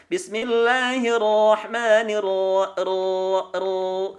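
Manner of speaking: very slow, drawn-out BISMILLAHIRRAHMANIRRAHIM with heavy R; thickened R. Shown as a demonstration. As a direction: chant BISMILLAHIRRAHMANIRRAHIM, thickening each R. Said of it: "Terdengar suaranya menebal".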